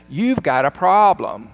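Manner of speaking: loud mock outburst; upset accusation. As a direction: imitate a tearful accusation without real sobs. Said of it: "she starts crying".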